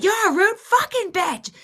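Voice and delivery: very high-pitched indignant outburst; outraged insult. Retold or imitated. Raging driver back at the taunting woman, outraged.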